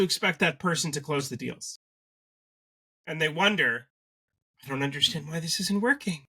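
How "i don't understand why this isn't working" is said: exasperated whining. Retold or imitated. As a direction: wail it in baffled frustration. Founders wondering, exasperated.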